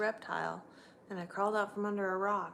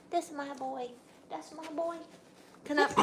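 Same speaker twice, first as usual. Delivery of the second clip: higher, softer cooing to the dog; 6 semitones higher, 3 dB quieter than usual. Real, not acted. Owner cooing at her dog, soft high baby talk. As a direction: coo it to him.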